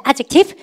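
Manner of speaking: adjective with a firm first-syllable stress. Shown as a demonstration. Teacher prompts class to repeat, adjective clearly stressed. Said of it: "발음할까?".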